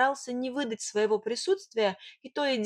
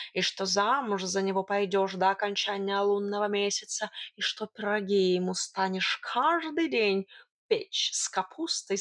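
lightly voiced cat relishing a list; wily tomcat, teasing. Cat listing promises made to Ilya, lightly mocking. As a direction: tease through the list, purring lightly.

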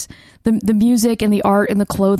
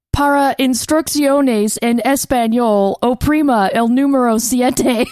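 slowed, mock phone-menu Spanish; lightly mocking Spanish phone prompt; bad Spanish recording; 2 semitones higher than usual. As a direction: imitate a clumsy Spanish voicemail, slowly. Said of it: "sounded like a woman from, like, Reno nine one one".

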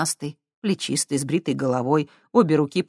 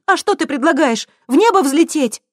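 much higher, louder; mock her question; sarcastic retort; 12 semitones higher, 8 dB louder than usual. A narrator's reading. Friend snaps back sarcastically. (саркастично, громко)

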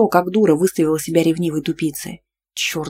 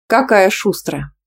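pleased grumble; 3 semitones higher, slower than usual. A narrator's reading. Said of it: "довольно пробурчала я".

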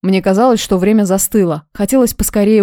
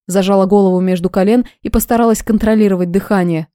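usual speaking voice

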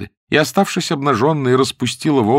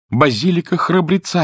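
high-pitched narrated exclamation; crying out; 7 semitones higher than usual. A narrator's reading. Porter insists on his answer once more, crying out. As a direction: call it out higher, without really yelling. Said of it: "опять закричал носильщик".

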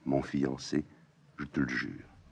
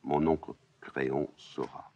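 a little weary. Acted. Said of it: "soudain un peu lasse".

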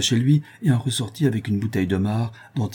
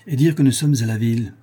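bitter; 3 semitones higher, 5 dB louder than usual. Acted. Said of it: "pleine d'aigreur".

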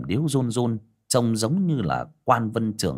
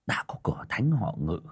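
softer whisper; whispered thought; 5 dB quieter than usual. Acted. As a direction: whisper it to yourself. Old man's inner thoughts.

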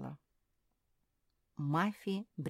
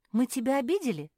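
fast, higher, anxious asking; frightened question; 9 semitones higher, 10 dB louder, faster than usual. Acted. Mafi asks Perla in alarm, frightened and fast. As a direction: blurt it out in worry. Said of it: "испугалась Мафи".

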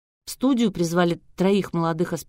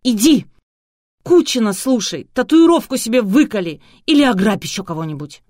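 much higher, much louder furious yell; 5 semitones higher, 8 dB louder than usual. A narrator's reading. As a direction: scream abuse at him. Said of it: "заорала".

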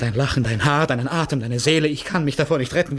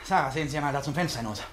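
hushed; 7 dB quieter than usual. Acted. Pointing out window, secretive.

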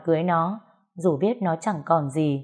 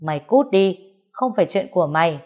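louder, fast angry shout; shouting father; 5 dB louder than usual. Acted. Father shouting at the young man, angry. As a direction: bark him out of the house. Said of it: "bố nó đã quát lên".

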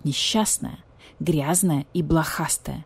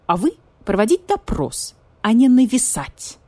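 haughty; 4 semitones higher, 3 dB louder than usual. Acted. Vulture lectures the police badger.

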